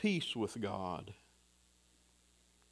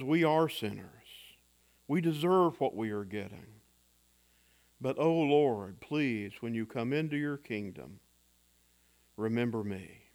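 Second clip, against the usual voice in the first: humble confession; 4 semitones lower than usual. Acted. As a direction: confess and beg in trust. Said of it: "a voice of confession, of petition, and a voice of trust".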